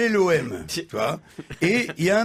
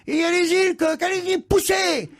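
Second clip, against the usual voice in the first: much higher, urgent shouts to push; shrill cheering; 11 semitones higher than usual. Acted. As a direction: cheer him on at the top of the voice. Hen cheering the rooster on.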